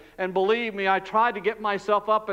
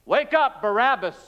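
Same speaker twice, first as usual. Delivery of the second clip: high, loud barking guard; the guard shouting at the prisoner to wake up; guard's shout; 4 semitones higher, 3 dB louder than usual. Acted. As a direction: yell him awake from the cell door. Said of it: "he comes up to my cell and he says".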